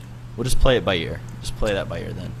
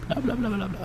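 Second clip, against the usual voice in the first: mocking diction; 9 semitones higher, 17 dB quieter than usual. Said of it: "Peter's diction".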